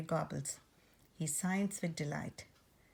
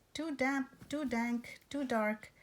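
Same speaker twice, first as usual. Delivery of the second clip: lightly higher little mouse voice; a hint of a small mouse complaining; squeaky mouse; 7 semitones higher than usual. A narrator's reading. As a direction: squeak it like a tiny fretful mouse. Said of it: "Mouse squeaks".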